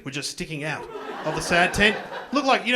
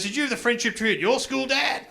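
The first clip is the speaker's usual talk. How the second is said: son quoted; 6 semitones higher than usual. Retold or imitated. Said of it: "He goes".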